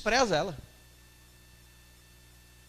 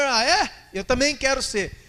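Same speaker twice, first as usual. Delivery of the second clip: eager; 6 semitones higher, 6 dB louder, slower than usual. Acted. Second follower joins in eagerly.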